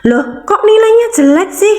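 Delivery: high, indignant parent voice; scolding parent. Retold or imitated. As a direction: imitate a parent scolding over bad grades. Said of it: "pasti dimarahi orang tua".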